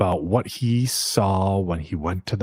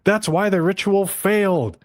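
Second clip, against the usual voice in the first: mock angry old man; 9 semitones higher than usual. Old man Takeda scolding Hikaru, a mild mock snarl. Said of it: "And he's like".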